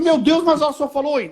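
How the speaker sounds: high, incredulous objection; acted protest. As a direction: pitch it up in mock disbelief. Husband protesting to wife, acted.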